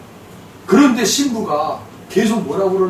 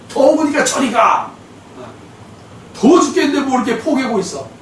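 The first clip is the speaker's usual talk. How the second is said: 1 imitating wife; 6 semitones higher than usual. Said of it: "우리 아내가 그래요".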